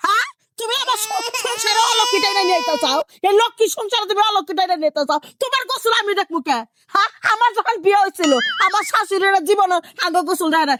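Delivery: outraged mother-in-law ranting; angry yelling. Acted. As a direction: fire indignant questions at the daughter-in-law. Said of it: "এখন আপনি যেভাবে চিল্লাচিল্লি শুরু করছেন".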